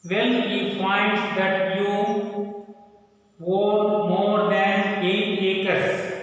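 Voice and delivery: slow, sing-song classroom reading of the story; slow read-aloud. Acted. Teacher reading a story aloud to children, slow and sing-song. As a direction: read each phrase slowly and deliberately to the class.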